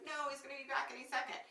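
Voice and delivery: high, fast retold protest; imitated panic. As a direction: rush it out as a panicked plea. Retold trapped woman's panicked objection.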